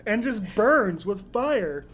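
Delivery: talking through a burning mouth; mouth full of hot food. Real, not acted. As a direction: speak slowly past the heat. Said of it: "stays in the back of your throat".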